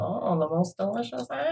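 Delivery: put-on hushed old crone offering an apple; old witch voice. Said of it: "That's my old lady witch voice".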